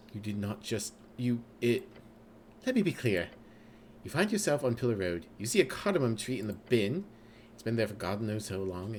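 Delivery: a hint of the know-it-all intellect; intelligence voice. The Intelligence skill mistakenly scolding the player, lightly voiced. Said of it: "that's the wrong voice".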